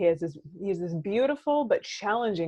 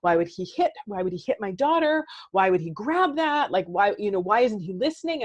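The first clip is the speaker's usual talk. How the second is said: upset parent; 3 semitones higher, 5 dB louder than usual. Retold or imitated. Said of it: "I can get all upset and be like".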